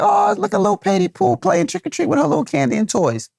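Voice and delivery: put-on high, sing-song doting over a little kid; doting dad voice. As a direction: coo at the toddler like a proud dad. Doting over daughter playing.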